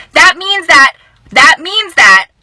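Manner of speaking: loud, halting repeats on the edge of tears; holding back tears. Real, not acted. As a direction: choke the words back. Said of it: "I'm trying not to cry".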